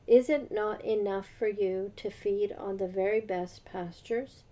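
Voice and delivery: measured, formal Bible reading; a light formal reading voice; scripture reading. Acted. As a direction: read the passage out steadily, like a lesson in church. Reads Ezekiel passage aloud.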